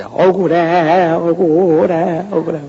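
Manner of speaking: slow wailing 억울해; mock ghost wail. Preacher mimics a Gyeonggi ghost, slow wail. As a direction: drag out 억울해 like a grieving ghost. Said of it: "경기도 같은데".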